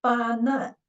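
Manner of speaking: "Fa nan" split as "fa", then "nan"; second syllable starts with n. Shown as a demonstration. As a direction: carry the n into "nan". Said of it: "should beginning with the initial".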